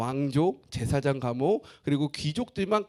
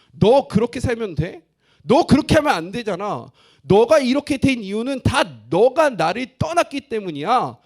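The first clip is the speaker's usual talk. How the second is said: loud stern rebuke, a bit higher; God rebuking; 5 semitones higher, 8 dB louder than usual. Acted. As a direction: scold the people as God would. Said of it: "하나님의 책망이 담겨져 있어요".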